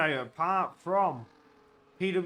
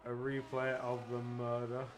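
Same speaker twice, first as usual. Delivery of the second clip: low, soft mock-solemn delivery; mock grim voice; 8 semitones lower, 10 dB quieter than usual. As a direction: say it like a dark crime drama. Mock grim murder line.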